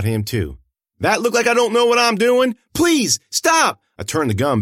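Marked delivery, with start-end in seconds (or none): 1.0-2.6 high, loud, cruel taunt. A narrator's reading. Amanda loudly taunts the girl after shooting. 2.7-3.8 high, loud begging cry; desperate plea. A narrator's reading. The girl loudly begs Amanda to stop shooting.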